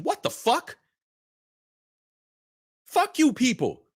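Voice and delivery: high incredulous cry; high-pitched what the hell; outraged disbelief. Real, not acted. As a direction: throw up your hands in disbelief. Outraged exclamation.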